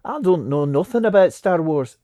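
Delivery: put-on New Zealand accent, lightly done; Kiwi accent. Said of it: "that's a very good Kiwi accent there".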